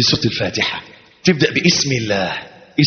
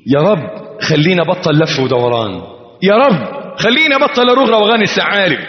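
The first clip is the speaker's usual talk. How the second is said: escalating supplication; pleading prayer. Pretend. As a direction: beg with growing urgency. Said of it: "بتقول له".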